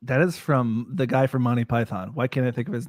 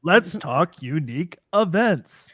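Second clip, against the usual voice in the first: Chad impression. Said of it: "That was my Chad impression".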